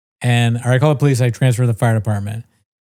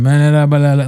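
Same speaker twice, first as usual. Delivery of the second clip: gibberish; 5 dB louder than usual. Retold or imitated. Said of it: "he's going".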